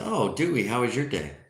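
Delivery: lightly voiced upbeat bartender; friendly bartender question. Bartender asks the second duck about his day, upbeat. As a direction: ask with playful, lifted interest.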